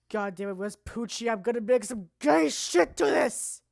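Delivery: a loose, hammed-up impression of a metal singer. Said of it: "when I hear that Dio voice".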